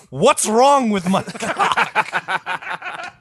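high, slow, dawning surprise; claimant's inner voice. Retold or imitated. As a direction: act out the confused claimant, laughing at the end. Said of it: "This is me thinking this".

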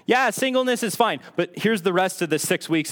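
high, glib reassurance; mock insincere. Church busy pushing marriage, brushing singles off insincerely. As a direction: imitate a token, insincere concession. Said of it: "it doesn't sound sincere".

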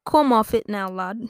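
lightly hammed English bloke; bad British accent. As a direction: chide in a mock British accent. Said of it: "that's what the British guy said".

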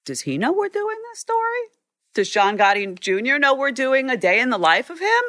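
retold disbelief, pitch climbing high; incredulous question. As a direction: ask it as if you can't believe it.

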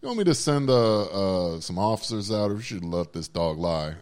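put-on a good-old-boy Southern accent on the phone. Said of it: "a Southern accent".

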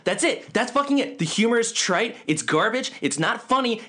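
worked-up rant; ranting with rising pitch; mock outrage. Real, not acted. Ranting about Borderlands.

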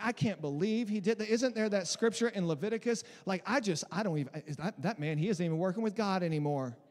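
mock-scandalised Southern gossip; Southern accent. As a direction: gossip in a put-on Tennessee accent. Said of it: "why I'm talking in a Southern accent".

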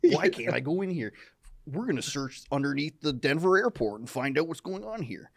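gruff conspiracy-show host; Jesse Ventura voice. Retold or imitated. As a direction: demand entry, indignant.

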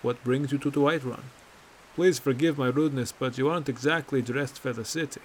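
easing out of the formal tone. Acted. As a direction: drop the official act, friendly now. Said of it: "in a more relaxed one".

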